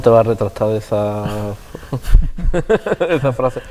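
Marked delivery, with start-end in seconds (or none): 1.3-3.0 rising laugh. Real, not acted. Host laughs at guest's jab.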